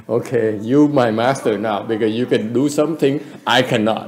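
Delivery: amused, conceding to a student; mock humble admission, laughing; laughing concession. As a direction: chuckle through the surrender. Acting out master conceding defeat.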